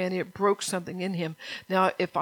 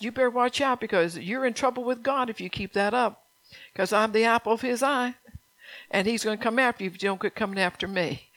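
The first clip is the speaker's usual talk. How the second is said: playful warning; 3 semitones higher than usual. Retold or imitated. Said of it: "I said".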